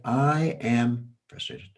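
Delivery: "I am" slow and held, "frustrated" lighter after it; slow, weight on I am. Shown as a demonstration. Coach demonstrating to Salwa, slow with weight on I am. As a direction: model it slowly, leaning on "I am". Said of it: "What if you say, "I am," and then a tiny little frustrated".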